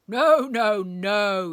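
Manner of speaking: loud outraged roar; thundering. A narrator's reading. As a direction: thunder it out in fury. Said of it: "he thundered".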